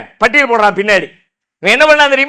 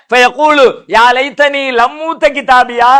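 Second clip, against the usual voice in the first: slow Quranic recitation; slower than usual. Acted. Quran verse recited in sermon.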